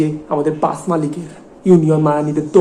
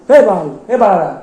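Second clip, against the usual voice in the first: louder, scoffing swear burst; scornful cursing; 3 semitones higher, 5 dB louder than usual. Acted. Boss swears at Bablu over his moralising, scornfully. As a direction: spit out two falling curses.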